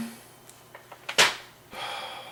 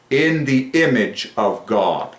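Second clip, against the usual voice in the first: slow recital; 2 semitones higher, much slower than usual. Real, not acted. Solemnly restates the phrase.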